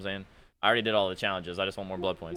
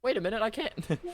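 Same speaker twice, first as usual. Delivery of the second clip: high mock complaint; mocking whine; 13 semitones higher than usual. Streamer still parodying opponent, high whine. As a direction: keep the whiny parody going.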